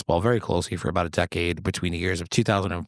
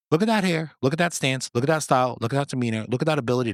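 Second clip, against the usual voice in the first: higher, emphatic listing; gushing admiration; 5 semitones higher, faster than usual. Real, not acted. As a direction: gush over your idol point by point. Gushing over a favourite player.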